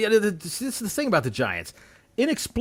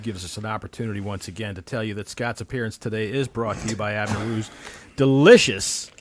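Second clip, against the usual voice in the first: mock sponsor ad read; hammed-up commercial voice.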